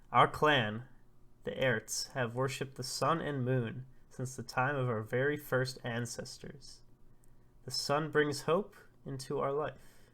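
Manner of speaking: lightly voiced, declaiming elder; solemn old prophet. Elder explaining clan worship of sun and moon, measured oration. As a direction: recite it formally, leaning on key words.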